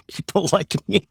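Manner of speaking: high, laughing mock of critics; laughing mockery. Real, not acted. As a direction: echo the critics with an amused laugh. Repeats phrase mockingly with laugh.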